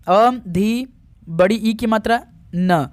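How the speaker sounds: अ, धी, न given one syllable at a time; spelling out. Shown as a demonstration. Teacher showing students the spelling, spelled out piece by piece. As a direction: spell अधीन in separate pieces, naming the long ई. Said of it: "अधीन कैसे लिखा जाता है".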